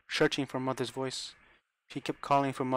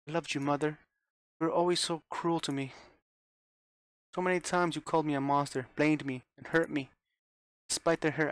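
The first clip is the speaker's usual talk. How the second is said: put-on a high, wounded girl's voice, mildly tearful; a lightly voiced broken daughter; 3 semitones higher than usual. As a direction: pour out the hurt to Mother. Rosa tearfully confessing to Mother.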